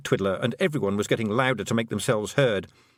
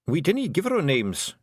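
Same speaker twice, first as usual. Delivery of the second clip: Feegle mutter; 7 semitones higher than usual. Acted. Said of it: "he muttered".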